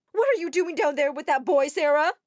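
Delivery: loud scolding shout from the window; mom yelling. Acted. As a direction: yell down at her daughter. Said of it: "Suddenly, Mom yelled".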